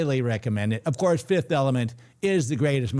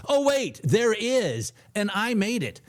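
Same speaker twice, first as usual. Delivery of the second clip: mock surprise; 9 semitones higher, slower than usual. Realizes he made the video.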